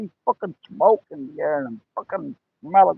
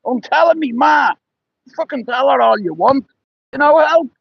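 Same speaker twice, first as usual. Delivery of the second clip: panicked yell; 6 semitones higher than usual. Retold or imitated. Friend yelling while dog bites.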